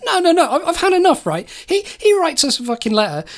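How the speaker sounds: laughing outburst of a man who's had enough; angry outburst. Acted. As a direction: blurt it out, fed up and laughing. Birch erupts in court.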